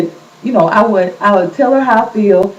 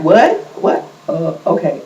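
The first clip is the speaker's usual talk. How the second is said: mock confusion; 3 semitones lower than usual. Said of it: "like, confused".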